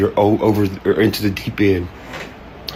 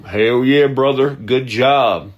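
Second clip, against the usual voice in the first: mock cheerful praise; 3 semitones higher, 4 dB louder, slower than usual. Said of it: "I'm like".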